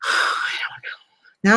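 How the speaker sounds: sigh, then a slow grieving whisper. Real, not acted. Grieving owner of the dead dog whispers sadly over her memorial. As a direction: let the sigh carry into a whisper.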